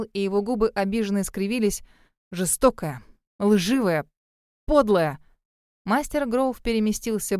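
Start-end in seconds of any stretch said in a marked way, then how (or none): 2.3-5.2 hurt accusation. A narrator's reading. Hurt Kyle accuses her.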